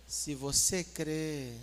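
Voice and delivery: suave, unhurried delivery; very gentle. Shown as a demonstration. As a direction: stretch it out soothingly. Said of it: "Bem suave".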